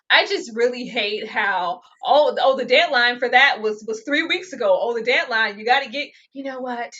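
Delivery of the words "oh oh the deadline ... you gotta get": louder, hammed-up scolding official; mock dean. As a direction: ham up a fussy deadline excuse. Mocking the dean's excuse.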